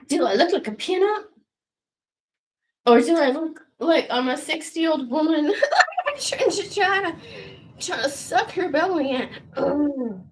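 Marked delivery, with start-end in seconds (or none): 2.9-10.3 laughing. Real, not acted. Laughing at her own look.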